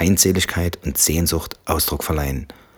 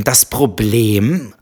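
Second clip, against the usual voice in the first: loud, slow and high; roared; 5 semitones higher, 4 dB louder, much slower than usual. Acted. Wife roaring over husband mid-sentence, furious. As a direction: cut him off with a roar. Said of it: "brüllte sie".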